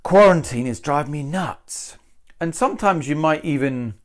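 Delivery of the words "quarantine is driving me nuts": nuts carries the weight; stress on nuts. Shown as a demonstration. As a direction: land the line on nuts. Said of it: "So that's why I've said".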